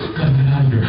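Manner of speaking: mock yell of trapped crew; panicked radio yell. Crew radioing from inside the puppet, a loud panicked yell. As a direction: shout it like men stuck inside. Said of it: "They're radioing going".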